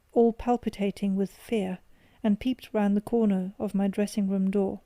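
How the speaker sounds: plain reading voice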